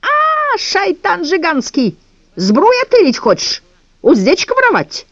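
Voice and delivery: high, slow, furious yelling; angry shrill shout. A narrator's reading. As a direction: scream at the thief in a foreign accent. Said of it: "злой, визгливый крик".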